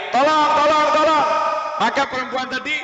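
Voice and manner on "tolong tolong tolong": higher, louder imitated scream for help; a mother calling out for help, hammed up; retold woman shouting for help; mock cry for help. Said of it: "Perempuan teriak-teriak ya".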